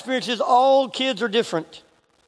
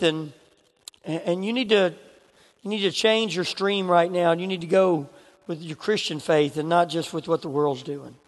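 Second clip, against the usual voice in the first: hushed sermon invitation. Acted. Altar call, quiet appeal.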